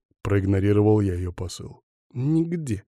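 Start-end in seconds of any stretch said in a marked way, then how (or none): 2.1-2.8 pained moan. A narrator's reading. Hurt woman clutching her ribs, moaning. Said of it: "простонала она".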